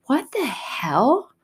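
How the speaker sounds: high, loud, outraged ranting at God; angry rant. Retold or imitated. Retold self rants at God over loving enemies, loud and outraged. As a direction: shout it in disbelief, fed up. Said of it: "And I'm like".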